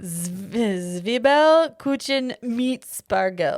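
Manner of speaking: slow, measured German; slow, confident pronunciation attempt; careful German pronunciation. Shown as a demonstration. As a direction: sound out each German word deliberately.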